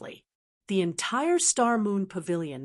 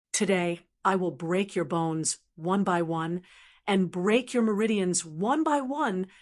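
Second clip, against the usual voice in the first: mild menacing threat, a touch raised; angry shouting. Acted. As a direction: spit threats at the enemy. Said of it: "glared at Lu Ming and shouted".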